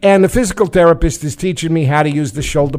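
put-on mild New York accent, casual storytelling. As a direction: keep a light New York accent going. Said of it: "We're still in the New York accent".

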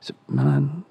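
lightly voiced cocky footballer; a hint of a smug footballer asking about Milan; mock player. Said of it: "And he goes".

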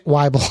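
Weibel said WHY-bul; Weibel, first part rhyming with "why"; corrective pronunciation. Shown as a demonstration. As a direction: say Weibel with a long "eye" in the first syllable. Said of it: "it says pronounced Weibel".

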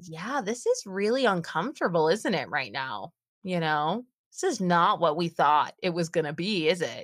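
soothing, understanding tone; calm a crying child kindly; gentle reassurance. Retold or imitated. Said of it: "And I said".

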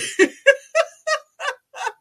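high squealing laughter; laughing fit. Real, not acted. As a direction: break into helpless giggles. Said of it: "I am laughing so hard right now".

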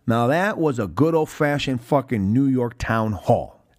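slow, deliberate proclamation; retold proclamation. Elvis sums up the commotion, retold as a slow proclamation. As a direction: pronounce it slowly, as a verdict on the chaos. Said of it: "Elvis geniusly proclaims".

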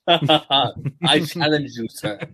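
slow, stiff overdubbed line; bad movie dubbing. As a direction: read it like a badly dubbed film. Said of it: "like one of those, uh, old badly dubbed Japanese videos".

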